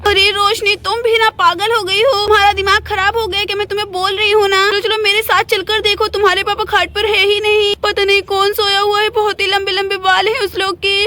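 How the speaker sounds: lightly voiced scolding mother; exasperated mother. Mother telling daughter to come and look, mildly exasperated. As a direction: insist with mild alarm and impatience.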